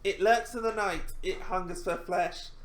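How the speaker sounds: horror trailer voice. Acted. Reading horror movie card aloud.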